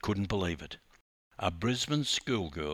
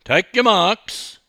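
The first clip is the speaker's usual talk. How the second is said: higher, louder and slow starter's bark; barked command; 10 semitones higher, 12 dB louder, slower than usual. Acted. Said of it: "The starter barked".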